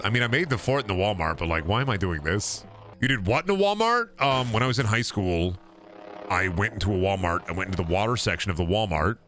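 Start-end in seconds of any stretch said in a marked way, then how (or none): 3.0-4.2 can't believe what he just heard; incredulous. Real, not acted. Friend hears about the Walmart fort, stunned disbelief.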